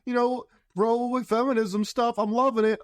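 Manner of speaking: mock churchgoing woman. Host mocking a woman in the church video, high and gushing. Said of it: "The woman being like".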